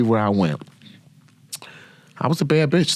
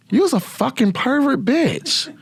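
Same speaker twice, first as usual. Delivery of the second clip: much higher, laughing through the insult. Real, not acted. Teasing the married squad leader to the listeners, laughing.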